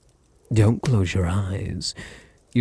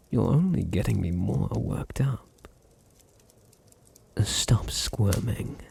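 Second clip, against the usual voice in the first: whisper; 4 dB quieter than usual. Acted. Vampire pinning her struggling pet, whispering. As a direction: hush him as he squirms.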